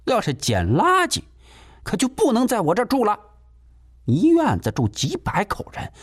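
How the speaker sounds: high, bossy landlady laying down rules; deflating lecture. Acted. Landlady putting the tenant in his place, high and bossy. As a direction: talk down to him from on high. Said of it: "就想打击打击他的气焰".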